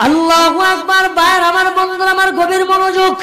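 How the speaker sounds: half-sung preaching with long drawn-out phrase endings; intoned religious narration; melodic sermon storytelling. A narrator's reading. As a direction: chant the story to a congregation, stretching key words.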